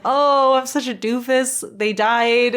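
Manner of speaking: mock dismay like the anxious droid; C-3PO despairing. C-3PO hearing the cheering, mock despairing droid voice. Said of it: "C three P O hears them cheering and is like".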